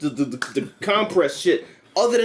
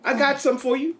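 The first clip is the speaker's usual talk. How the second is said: vengeful killer voice; 7 semitones higher than usual. Retold or imitated.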